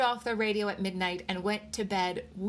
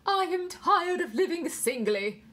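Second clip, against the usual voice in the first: high, slow, loud English recital; English accent; 10 semitones higher, 5 dB louder than usual. A narrator's reading. Nurse continuing the verse, English accent. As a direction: declaim plaintively in an English accent. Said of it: "the nurse went on".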